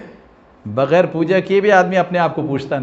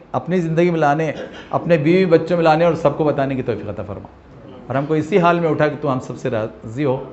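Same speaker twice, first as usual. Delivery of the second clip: closing prayer. Acted. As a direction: pray humbly for the congregation. (عاجزی سے دعا)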